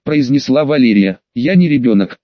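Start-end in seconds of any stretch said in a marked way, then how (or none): 1.3-2.2 mild snap. Acted. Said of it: "недовольно рявкнула".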